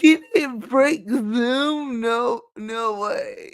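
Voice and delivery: mock disbelief, feigning surprise; sarcastic. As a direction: play innocently shocked, with sarcasm. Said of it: "That was sarcasm".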